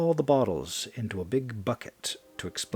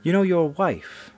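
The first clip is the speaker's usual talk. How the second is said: cold menace; 4 dB louder than usual. Acted. Woman confronting dying man.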